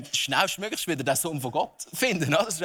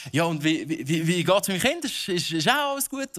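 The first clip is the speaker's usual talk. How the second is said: hammy stage actor. Pretend. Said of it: "theatralisch zu spielen".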